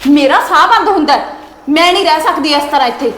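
heated outburst. Acted. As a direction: shout that you can't bear it here. Wife fights, feels suffocated. (ਤਪ ਕੇ ਉੱਚੀ ਆਵਾਜ਼ 'ਚ ਬੋਲਣਾ)

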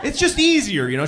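usual speaking voice

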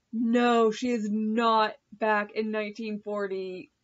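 loud, indignant retold disbelief; emphatic denial. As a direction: refuse to believe it, hitting the words hard. Retold refusal to believe scene.

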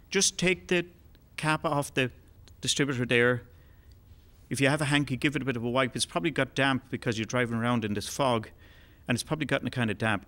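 mysterious voice. Acted. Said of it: "the voice goes again".

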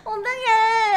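laughing almost to tears; laughing helplessly. Real, not acted. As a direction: crack up, can't stop. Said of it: "이거 너무 웃겨".

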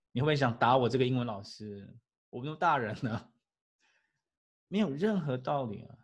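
normal talking voice

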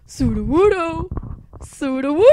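loud, high swooping creature cry; Sudowoodo impression. Fan doing Pokemon voices, high Sudowoodo whoop. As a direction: whoop the name up high, about to crack up.

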